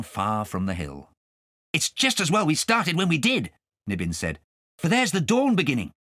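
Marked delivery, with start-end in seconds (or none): 1.7-5.9 a hint of an excited cat; eager, a touch higher; lightly voiced Nibbins. Nibbins longing to join the dance, lightly voiced.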